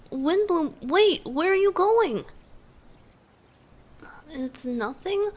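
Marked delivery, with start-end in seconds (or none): 0.1-2.2 calling after someone. Acted. Calls after leaving listener.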